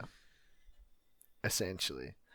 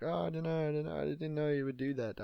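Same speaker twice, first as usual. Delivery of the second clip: mock panic; 8 semitones higher, faster than usual. Retold panicked denial.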